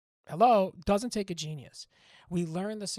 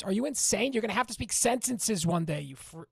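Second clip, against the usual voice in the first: real exasperated rant, raised voice; getting mad; 3 semitones higher, 5 dB louder than usual. Real, not acted. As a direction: scold them in loud, higher-pitched exasperation. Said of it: "sorry I got mad".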